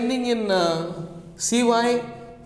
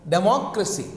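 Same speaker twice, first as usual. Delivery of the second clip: democracy stressed on "moc"; stress on second syllable; faster than usual. Shown as a demonstration. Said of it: "we have the stress in democracy".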